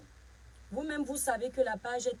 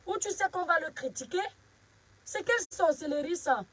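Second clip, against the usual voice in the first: raised, higher-pitched telling-off; indignant scolding; 4 semitones higher than usual. Real, not acted. Streamer to a hostile viewer defending Eto's base, indignant. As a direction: order an unwelcome critic out, voice lifted.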